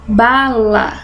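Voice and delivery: "bala" with a long, strong BA; drawn-out BA in "bala"; stress on penultimate syllable. Shown as a demonstration. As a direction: lean on the first syllable of "bala". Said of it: "tenho a penúltima".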